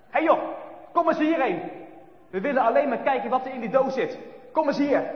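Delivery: loud, high angry shout; angrier voices. Acted. Boys demanding the box from Brinkie, angry shout. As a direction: bark at him to come here. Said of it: "nu klinkt hun stem heel wat bozer".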